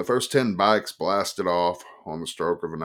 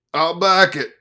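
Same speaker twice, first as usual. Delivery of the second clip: put-on high, loud drunken yell; screaming; 11 semitones higher, 10 dB louder than usual. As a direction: shout your backing eagerly. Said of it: "the Life man screamed".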